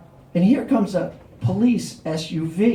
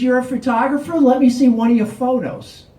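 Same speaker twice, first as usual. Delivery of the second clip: higher, pushy mock cop challenge; the bad cop demanding proof, higher; 5 semitones higher, 3 dB louder than usual. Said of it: "And he says".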